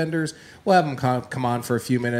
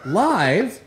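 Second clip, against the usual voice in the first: announcing big news; 4 semitones higher, 3 dB louder than usual. Real, not acted. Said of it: "make an annou-, the announcement?".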